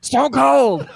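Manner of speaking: high, loud laughing blurt; blurted shout. Real, not acted. A guest yelling a wrestler's name as a glass shatters, loud and laughing. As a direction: yell it out before you can stop yourself. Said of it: "uncontrollably said".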